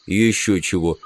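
low, grudging grumble; grumbling. Acted. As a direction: grumble it low under your breath. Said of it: "проворчал Билл". (недовольное ворчание)

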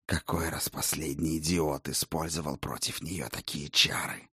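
soft, low menacing vampire. Acted. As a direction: speak as a cold, scornful vampire. Vampire voiced by narrator.

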